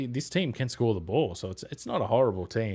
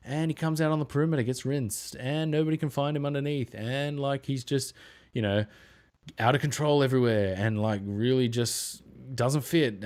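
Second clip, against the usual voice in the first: exasperated; 5 semitones higher than usual. Retold or imitated. Mocking exasperated fan watching Gobert.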